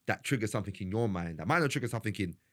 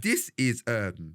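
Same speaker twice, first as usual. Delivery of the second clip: real false start, louder then hesitating; stuttering start; 3 dB louder, much slower than usual. Real, not acted. Podcaster searching for his point, stuttering start. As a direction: stumble into the thought and stall on "um". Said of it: "Sorry, I'm stuttering there".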